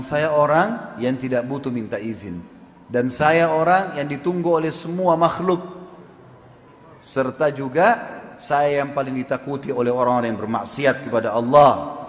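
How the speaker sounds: slow, portentous declaration; measured, building retold pronouncement; mysterious stranger. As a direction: announce yourself with deliberate weight, pausing between phrases. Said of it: "Dia bilang".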